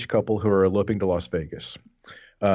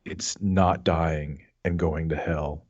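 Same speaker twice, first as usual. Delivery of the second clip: trailer voice; 4 semitones lower, slower than usual. Shown as a demonstration. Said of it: "subtitle for it thing".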